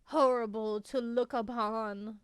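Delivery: put-on creaky old witch cursing travelers; old hag. Improvised witch speaks to travelers.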